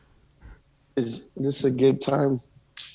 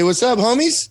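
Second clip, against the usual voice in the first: put-on kid voice demo; 10 semitones higher than usual. Shown as a demonstration.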